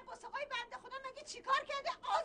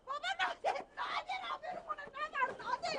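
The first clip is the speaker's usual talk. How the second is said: tearful pleading, rising and slowing; a wife begging her husband not to shame them; 2 semitones higher than usual. Acted. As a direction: beg him to stop, near tears.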